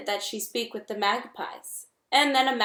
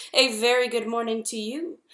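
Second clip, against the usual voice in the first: friendly booming voice. Acted. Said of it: "the robot's friendly voice boomed".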